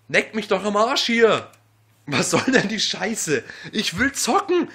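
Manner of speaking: loud furious cursing; yelling curses in anger; berserk rage. Real, not acted. Raging cursing. (laut tobend)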